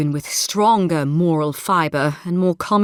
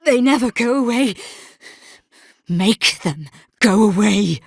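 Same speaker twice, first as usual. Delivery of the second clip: anguished plea; 2 semitones higher than usual. Acted. Haunted figure begging for visions to end, anguished. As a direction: beg for relief from torment.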